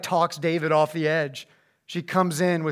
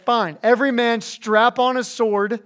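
angry David; 5 semitones higher, 4 dB louder, slower than usual. Retold or imitated. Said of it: "He's, he's mad".

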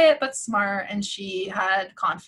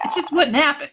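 breathy whispered aside; 4 semitones higher, 3 dB louder than usual. Real, not acted. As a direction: drop to a whisper.

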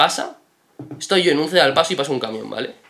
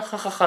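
imitated uncomfortable "ja, ja, ja"; forced, uneasy mock chuckle; awkward laugh; 7 semitones higher, 5 dB quieter than usual. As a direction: fake a nervous little laugh. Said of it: "yo como risa incómoda".

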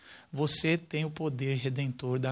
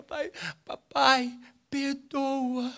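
mock crying child; 11 semitones higher, 4 dB louder, much slower than usual. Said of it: "o filho começa a chorar e fala".

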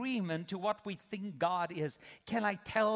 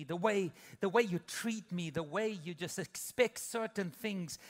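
hurt spouse. Retold or imitated. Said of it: "the one would say to the other".

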